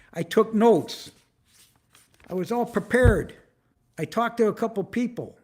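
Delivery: defending himself to his listeners, heated; upset. Real, not acted. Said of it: "I'm so upset right now".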